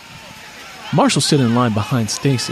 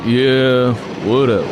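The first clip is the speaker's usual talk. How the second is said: dismissive, louder yeah whatever; attitude; 3 dB louder than usual. A narrator's reading. Quentin brushing off his brother with attitude. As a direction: brush them off. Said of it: "the attitude in his brother's voice".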